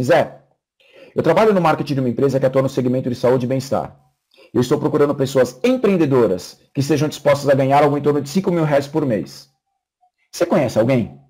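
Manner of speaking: steady, confident sales pitch, eye to eye; with conviction. Shown as a demonstration. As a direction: sell it like you believe every word. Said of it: "falando assim com convicção".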